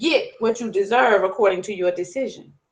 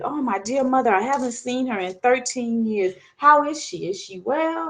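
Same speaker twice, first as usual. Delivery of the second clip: eager and rising; a son thrilled by news of his mother; excited son. Acted. Anger greets news of his mother, eager and bright. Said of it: "And Anger gets excited".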